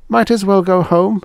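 high, loud, plainly reproachful alien; Venusian girl. Acted. Venusian girl telling Helen she always walked away.

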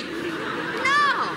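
sharp, high, loud no; furious cry of no; angry shout. Acted. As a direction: snap back the answer yourself. Wife answers her own question angrily.

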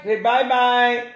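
slow, drawn-out coaxing; coaxing farewell prompt. Real, not acted. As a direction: stretch it out to coax a little one. Prompting a little one to wave off.

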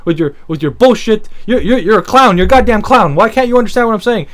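hammed-up furious customer demanding a quarter; mock yelling customer. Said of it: "She's still yelling".

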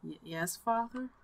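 very soft, near-whispered reading; hushed dialogue. Acted. Player reading father and son greeting, very soft. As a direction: murmur it as a hushed tender moment.

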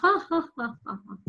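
hearty pretend laughter; read-out laugh. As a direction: spell out a storybook laugh. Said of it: "Missus Pena laughed".

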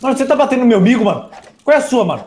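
mock indignant. Friend hitting his pet mob.

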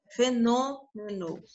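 fenômeno slowly, back to a closed Ô on NÔ; drawn-out fenômeno with closed NÔ. Shown as a demonstration. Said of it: "Olha como é que o O é fechado".

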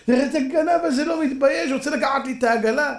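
high, indignant public accusation; accusing thief. Acted. Cripple accuses the owner before the crowd, high and indignant. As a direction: turn the crowd against him.

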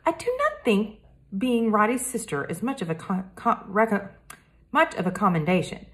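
lightly voiced polite French boy detective; a hint of a careful French accent, earnest; Hector, French boy.

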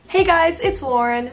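high, bright YouTube hello; intro greeting. Real, not acted. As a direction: chirp the channel greeting. Her usual intro greeting.

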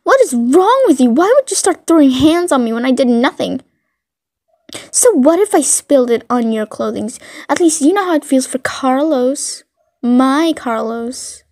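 mildly indignant, pitch swinging on stressed words; indignant bully. Acted. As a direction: play an offended bully having a go. Bully confronts listener in acted quarrel.

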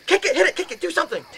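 high, loud frantic orders; mock-calm turned panic. Comedian acting out ordering his roommate to attack, panicked yell. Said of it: "so very calmly, I said to him, very methodic".

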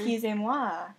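mock French excusez-moi; lightly put-on French accent. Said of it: "Don't try to be French".

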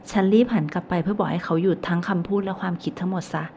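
usual speaking voice

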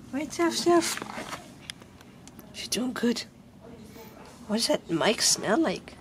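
high sing-song talk to a dog; pet talk voice. Real, not acted. Talking to the dog again.

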